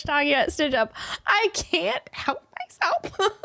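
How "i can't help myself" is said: laughing confession. Real, not acted. Giggly confession.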